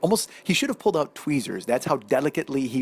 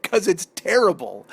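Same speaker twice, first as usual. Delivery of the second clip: louder, higher mock complaint; imitated exasperated wife; 4 semitones higher, 5 dB louder than usual. Wife to husband on the sandwich, exasperated mock outburst. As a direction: push out "terrible" as a fed-up wife. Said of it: "She said".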